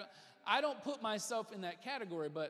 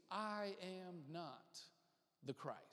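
John the Baptist; 2 semitones lower, 7 dB quieter, slower than usual. Retold or imitated. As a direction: let the declaration sink to a hush. John's closing denial to the crowds.

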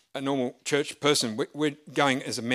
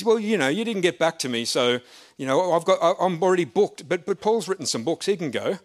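higher, lively imitation of a fellow pastor; Pastor Nick Watson impression; 5 semitones higher, 4 dB louder than usual. Preacher imitating his old pastor declining, higher. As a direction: play his friend's mannerisms, a touch higher. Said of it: "if I do his mannerisms".

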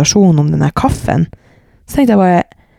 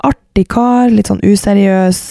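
gushing friend; 6 semitones higher than usual. Retold or imitated. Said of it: "Og hun bare".

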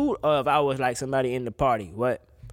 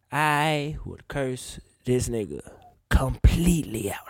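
hushed aside; 2 semitones lower, slower than usual. Real, not acted. Fantasizing about cursing friend out.

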